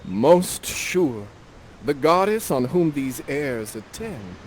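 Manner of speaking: Ferdinand replying. Acted. Host voicing Ferdinand answering Miranda, slow and courtly. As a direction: declare it to a goddess. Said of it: "You say".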